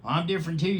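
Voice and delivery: high, eager hedgehog voice; the hedgehog joining in for the bunnies; Dill Prickle the hedgehog. A narrator's reading. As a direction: pipe up cheerfully. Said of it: "said Dill Prickle".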